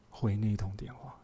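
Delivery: breathy whisper of an inner prompting. Retold or imitated. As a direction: whisper it like a voice within. God's inner prompting, echoed. (轻声耳语，像心里的声音)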